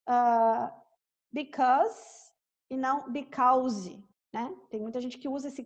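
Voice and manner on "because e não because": because dito "bikaz", não "bikawzi"; right vs wrong because. Shown as a demonstration. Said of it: "a gente tem que cuidar com a pronúncia". (pronúncia certa contra errada)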